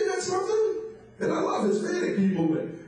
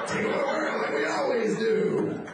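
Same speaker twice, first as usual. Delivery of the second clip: slow, high, hammed-up cartoon mastermind; cartoon villain voice; 7 semitones higher than usual. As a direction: ham up the Brain's scheme, slowly. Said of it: "I think they're gonna say something like".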